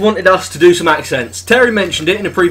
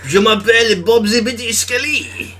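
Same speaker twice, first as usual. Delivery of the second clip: put-on French accent; 2 semitones higher than usual. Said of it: "I need to get myself into French".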